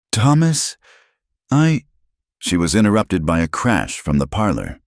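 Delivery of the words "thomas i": startled cut-off. A narrator's reading. Abigail cut off by crash.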